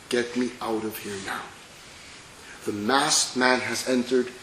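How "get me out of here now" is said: begging. Acted.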